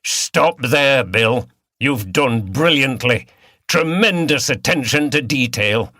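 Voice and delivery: a touch of inspector's excitement; urgent, lightly excited. Acted. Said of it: "could not contain his excitement".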